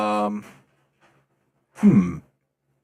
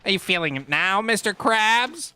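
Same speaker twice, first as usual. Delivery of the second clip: cartoon catchphrase; 6 semitones higher than usual. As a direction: stretch the last words into a rising taunt. Cartoon catchphrase, slower take.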